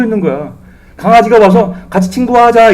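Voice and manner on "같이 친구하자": a lightly voiced friendly puppy, a touch higher; puppy's invitation. Preacher voicing the dog that befriends Lazarus, lightly playful. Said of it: "이랬거든요".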